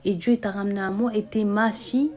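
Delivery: mother angrily reassuring her daughter she is wanted; angry mother. Acted. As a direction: scold her daughter hard, refusing her words. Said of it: "elle s'énervait, elle lui a dit".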